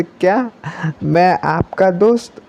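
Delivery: high startled "क्या" then slow disbelief; can't believe what he's hearing; stunned question. Acted. Mitso hearing he's her friend, slow stunned disbelief. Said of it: "पूरा shocked होता है".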